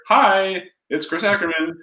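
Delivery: "Hi" pitched high to mirror them; matching high hi. Shown as a demonstration. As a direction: mirror their bright "Hi" back.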